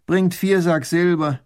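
loud, slow command; baron ordering. A narrator's reading. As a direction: order the soldiers curtly. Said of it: "befiehlt Raffigny". (Baron befiehlt laut)

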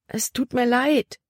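high, hurried apology; Libby interrupting Caleb's scolding, pleading. A narrator's reading. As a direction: rush in to apologize.

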